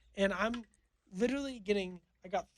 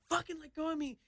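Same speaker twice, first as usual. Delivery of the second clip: retold scream; 8 semitones higher, 4 dB quieter than usual. Photographer grabbed by guards demanding release, mock screaming. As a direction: imitate a scream with the volume held in. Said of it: "screaming on the ground".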